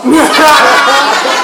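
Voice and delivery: high burst of laughter. Real, not acted. Laughing at own mom line.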